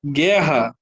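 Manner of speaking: guerra said slowly, the U silent, gué-rra; drawn-out guerra with no U sound; guerra, slow and careful, U unspoken; spoken example. Shown as a demonstration. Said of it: "se eu falar assim".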